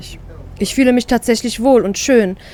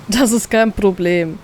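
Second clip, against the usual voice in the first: grinning; slower than usual. Acted. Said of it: "grinst er".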